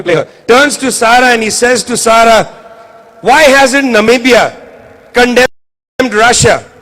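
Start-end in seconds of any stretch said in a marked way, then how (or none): 3.2-6.7 mock-arrogant quote, slowed down; a hint of a condescending moderator talking down to a prime minister. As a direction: imitate a patronizing moderator, lightly. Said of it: "in a condescending, arrogant way".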